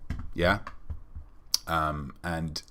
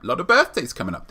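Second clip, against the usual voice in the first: higher, fast excited repeat; building excitement on birthdays; more excited; 9 semitones higher, 4 dB louder, faster than usual. Shown as a demonstration. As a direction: push it up with glee.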